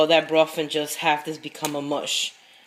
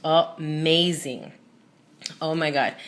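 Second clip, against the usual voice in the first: savoring; slower than usual. Real, not acted. Just tasted the soup.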